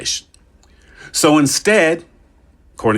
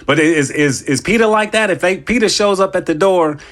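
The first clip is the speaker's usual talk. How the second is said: mock alarm; 5 semitones higher than usual. Mock worried questions about peta.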